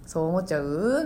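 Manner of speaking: put-on low-key Tokyo-accented comic aside; おぎやはぎ. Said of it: "おぎやはぎさんの感じとか". (標準語で力の抜けたツッコミ)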